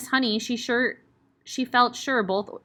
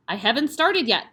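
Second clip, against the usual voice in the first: briskly; 3 semitones higher, 5 dB louder than usual. Acted. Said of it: "the Trunchbull said briskly".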